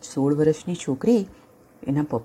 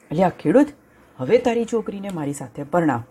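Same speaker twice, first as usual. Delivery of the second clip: bossy lion; 3 semitones higher than usual. Acted. Lion demands the girl.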